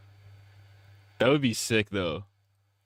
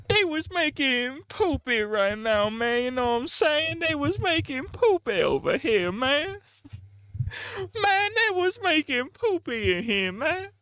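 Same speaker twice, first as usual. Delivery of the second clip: high hood gangbanger voice. Retold or imitated. Streamer acts the gangbanger bragging about poopy, high squeaky voice. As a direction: whine it like a tough guy gone squeaky. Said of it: "he just starts talking about poopy".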